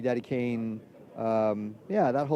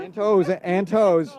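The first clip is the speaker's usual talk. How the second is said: playful emphasis; 6 semitones higher, 6 dB louder, much slower than usual. Real, not acted. Playful add-on to crossed fingers.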